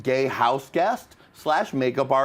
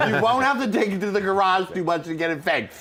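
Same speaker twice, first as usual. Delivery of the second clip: laughing mock advice; 3 semitones higher than usual. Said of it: "I would have been like".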